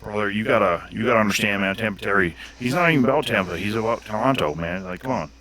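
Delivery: lightly voiced loud bro, calling everyone brother; a hint of a pumped-up wrestler bro; Tampa Terry impression. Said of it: "Was that a pretty good impression".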